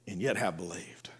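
hushed, reverent whisper. Acted. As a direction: let it fall to a whisper. Scripture climax dropped to whisper.

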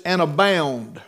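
"abound" given firm weight; preacher underlining "abound" as he quotes; stress on "abound". Shown as a demonstration. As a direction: lean on the second syllable of "abound". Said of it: "I want to emphasize the word abound".

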